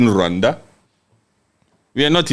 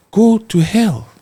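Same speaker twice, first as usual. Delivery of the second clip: defiant; 7 semitones higher, slower than usual. Retold or imitated. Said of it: "choose to be defiant and said".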